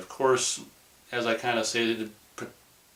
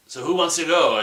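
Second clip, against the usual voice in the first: mocking; 7 semitones higher, 6 dB louder than usual. Mocking the guide's line.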